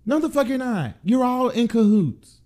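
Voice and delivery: rising fury at the whole system; outraged. Real, not acted. Podcaster to listeners, outraged shout. Outraged rejection after mock plea.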